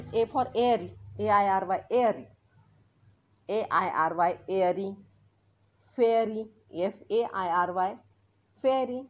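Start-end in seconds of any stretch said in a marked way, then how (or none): 1.2-4.9 ए आय आर वाय spelled out, then एअरी; spelling airy. Shown as a demonstration. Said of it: "आता एअरी पण आहेत". 6.0-9.0 फेअरी spelled slowly, then said; spelling fairy. Shown as a demonstration. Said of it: "आता एअरी पण आहेत".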